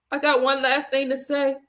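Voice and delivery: tearful but held together, reliving the moment; tearful insistence. Retold or imitated. Daughter at her dying daddy's bedside, tearful but controlled. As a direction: hold the tears back and ask to be heard. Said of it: "And I'm crying".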